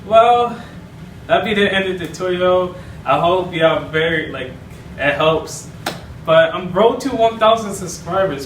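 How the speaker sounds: very high giggly cartoon mice greeting; Mickey and Minnie. Mickey greeting Minnie, high and giggly. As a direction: coo and chuckle high.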